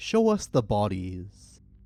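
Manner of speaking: usual speaking voice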